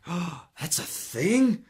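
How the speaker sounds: high, excited discovery; light up as it dawns on you; hammed-up amazement at adjustable strings; freaking out. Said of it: "And I freaked out".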